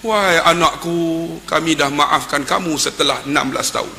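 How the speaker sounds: put-on forgive your child gently; quiet, unhurried mother's words; tender forgiveness. Mother forgives her son, retold.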